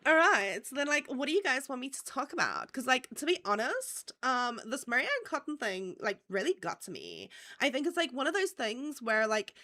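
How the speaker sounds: put-on girly voice, lilting up at phrase ends; mock those girls with a swooping, like-filled chatter; exaggerated girly accent with stretched endings. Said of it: "I can do that accent so well".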